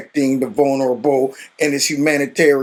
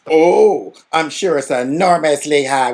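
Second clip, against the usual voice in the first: quivering voice; slower than usual. Retold or imitated. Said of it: "with that quivering voice".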